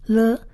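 "了" as an isolated l sound with a short neutral vowel; teacher modelling a lone "了"; letter sound demo. Shown as a demonstration. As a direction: sound out "了" on its own. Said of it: "拉美在发音上面它发了".

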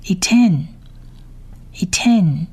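ייתן read out as a separate word, "i-ten"; 逐词念读. Shown as a demonstration. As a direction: model ייתן on its own for learners. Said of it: "我们逐一来念一次他的单字". (单独示范 ייתן 的读音)

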